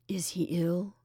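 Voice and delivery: whispered, fearing the worst; anxious whisper. Acted. Jimmy dreading news of Sid, in a whisper. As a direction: breathe the question out, barely voiced.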